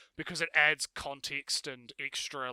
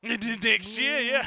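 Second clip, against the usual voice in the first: laughing while saying it; cartoon laugh; 8 semitones higher, 10 dB louder, much slower than usual. Real, not acted. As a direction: laugh through the words. Laughing at the next-year joke.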